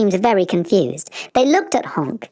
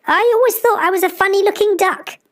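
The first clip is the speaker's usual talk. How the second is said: amazed; 13 semitones higher, faster than usual. Acted. Honk explains his surprise.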